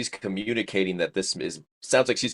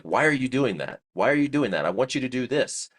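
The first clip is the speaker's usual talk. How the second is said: raised pitch, mildly sharp and impatient; frustrated snapping; 6 semitones higher than usual. Retold or imitated. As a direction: replay the irritated therapist at the patient, a touch heated. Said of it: "I start to get upset at the patient".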